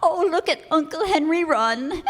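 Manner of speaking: laughing. Acted. Niece laughs at fleeing uncle.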